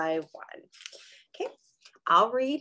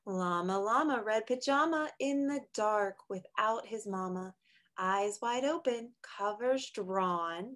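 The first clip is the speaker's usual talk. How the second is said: softer, slower bedtime read; hushed storybook read; 5 dB quieter than usual. Acted. Reads a picture book aloud.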